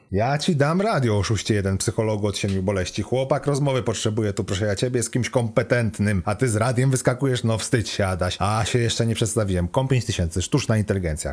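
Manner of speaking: a hint of a chatty, bossy computer; lightly voiced scolding AI. Car computer tells off Adaś for blaming the radio, lightly scolding. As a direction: lightly play a cheeky AI telling someone off.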